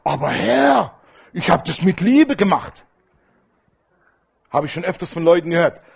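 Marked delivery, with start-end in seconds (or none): 0.0-2.8 mock-indignant protest. Churchgoer protesting to God over a rejected cake, mock indignant. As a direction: plead your case, mildly affronted. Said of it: "du sagst ganz empört".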